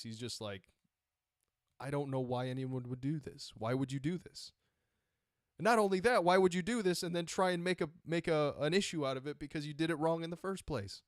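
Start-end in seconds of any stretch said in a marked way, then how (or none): 1.8-11.0 disdainful judge. Retold or imitated. Judge scoffing at a party who botched its own appeal, disdainful. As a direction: sneer at the party's foolishness. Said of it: "you can read the disdain in his voice".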